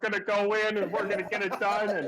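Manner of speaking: a hint of a gruff football coach; lightly voiced pep-talk coach, laughing. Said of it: "he sounds like a fucking football coach".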